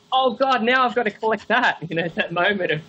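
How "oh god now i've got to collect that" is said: high, hammed-up groan of obligation; mock collector dismay. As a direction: act the fan who now must own it too. Collector groaning about another item.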